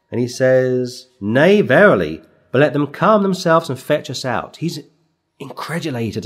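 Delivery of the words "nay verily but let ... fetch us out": a touch of Paul's fury, slowed on nay verily; firm mock indignation, leaning on nay; furious Paul. Preacher voicing Paul refusing to leave jail, mildly indignant. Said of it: "he's furious".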